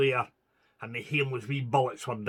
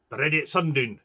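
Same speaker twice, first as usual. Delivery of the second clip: snapped order; 5 dB louder, faster than usual. Acted. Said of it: "snapped Sergeant McCole".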